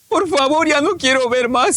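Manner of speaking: pleading. Retold or imitated. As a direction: beg to be spared.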